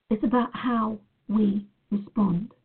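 real tears, slow and choked; tearful. Real, not acted. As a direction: push the words out through real tears. Emotional talk about crying.

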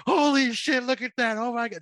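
high, loud excited gasp of awe; mock amazed laugh-along. Showing a scared friend how to laugh it off, high and excited. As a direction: show him how to laugh it off. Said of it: "That's all you can do is be like".

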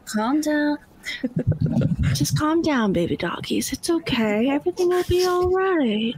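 gentle soothing voice to calm frantic dogs; speaking softly. Acted. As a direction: hush them kindly, like settling scared puppies. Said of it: "I'm gonna start speaking softly".

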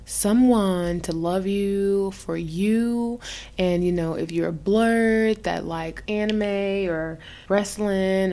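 slow, drawn-out infomercial pitch. Acted. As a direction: sell it like a late-night ad. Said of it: "I'm gonna make it sound like an affirm-, uh, uh, infomercial shit".

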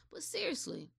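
whispered but seriously. Real, not acted. Vlogger calming herself down, whispering. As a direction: pull it back to a hush. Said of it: "reel it on in".

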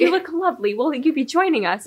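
hint of an eerie come-on. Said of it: "It was just eerie".

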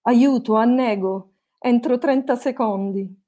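hammed-up little yell of distress; mock cry for help. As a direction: call out for help, half in earnest. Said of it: "una bella tedesca dai capelli biondi urlò".

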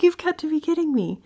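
high, loud incredulous exclaim; high, loud, stunned disbelief. Retold or imitated. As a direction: cannot believe what she hears. Mom stunned by daughter's vision.

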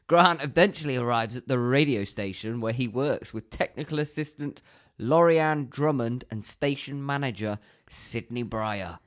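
measured, scripted synopsis reading; plot summary read-out. Real, not acted. Co-host reading the plot slot against a timer, narration style. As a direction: read it out like a film blurb, lingering on phrase ends.

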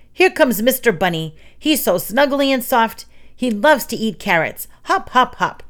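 hammed-up cute bunny chant, lilting high; sing-song bunny patter; cutesy bunny act. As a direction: play a snuggly little bunny. Pretend bunny act meant to scare.

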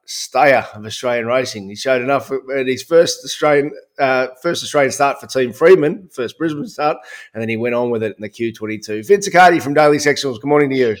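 hoarse, gravelly voice from screaming; rough, worn-out gravelly throat. Real, not acted. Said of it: "Your voice sounds great".

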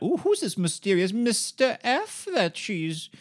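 put-on high, slow gossipy old lady voice; nosy busybody. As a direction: coo it like a nosy matron. Imitating nosy Mrs Jennings.

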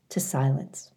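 soft whisper fading to silence; whispered fade. A narrator's reading. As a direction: let it die into a whisper. Voices dying down.

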